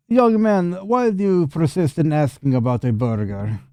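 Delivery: put-on high, scolding old-woman character voice; indignant elderly townswoman; exasperated old wife. Game master voices Anna.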